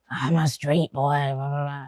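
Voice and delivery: badly faked Nigerian street boy voice; half-hearted mock street slang; street boy accent. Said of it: "Sorry, I can't do that accent".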